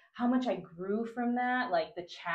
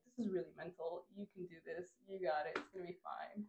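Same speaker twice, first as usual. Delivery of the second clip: quiet self-talk; 11 dB quieter than usual. Retold or imitated. Talking herself up the mountain, softly. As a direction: murmur encouragement inward. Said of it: "moments of realization".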